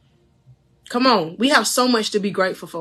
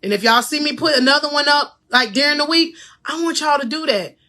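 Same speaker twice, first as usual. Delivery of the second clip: coaching voice; 4 semitones higher than usual. Real, not acted. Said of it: "in my coach voice".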